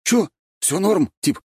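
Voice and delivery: high, cocky street-tough swagger; gopnik voice. A narrator's reading. Sweet boy faking a gopnik to newcomers, cocky swagger. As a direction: play a fake tough guy from the block. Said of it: "Голос Валентина тут же стал нормальным".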